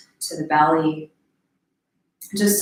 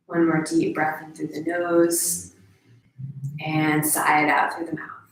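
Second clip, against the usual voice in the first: calm, slightly lowered guiding voice; guided meditation; 3 semitones lower, 5 dB quieter than usual. Real, not acted. Guide inviting a deep breath and sigh, calm meditation voice. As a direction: lead them gently into a deep breath.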